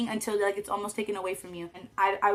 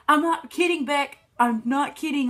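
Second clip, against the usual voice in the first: insistent dad; 6 semitones higher, 4 dB louder than usual. Retold or imitated. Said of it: "he was like".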